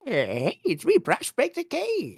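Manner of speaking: put-on high old prospector voice; Prospector Cade. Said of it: "I could pretend to be, like, an old prospector".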